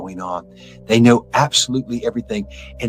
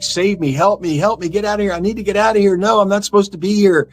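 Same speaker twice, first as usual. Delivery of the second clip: high, desperate pleas, much higher in pitch; panicked pleading; 8 semitones higher than usual. Retold or imitated. The damned in hell begging to get out, panicked. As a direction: beg to be let out in terror. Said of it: "everybody's like".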